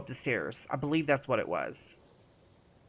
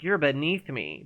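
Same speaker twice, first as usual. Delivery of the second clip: haughty. Retold or imitated. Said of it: "that's kinda how Miss Mirabelle would talk".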